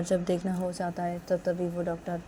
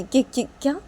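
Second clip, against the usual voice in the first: loud, high, stammered questioning; stunned disbelief; 9 semitones higher, 8 dB louder than usual. A narrator's reading. Father questions Nisha about the baby, stunned. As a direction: rise into astonished questions. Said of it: "हैरान से देख रहे थे".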